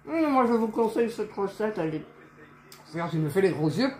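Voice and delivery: talking with mouth full; words through a mouthful of food. Real, not acted. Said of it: "parce que je parle la bouche pleine".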